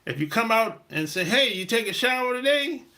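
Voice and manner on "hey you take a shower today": blunt question. Shown as a demonstration. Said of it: "You can't say it like that".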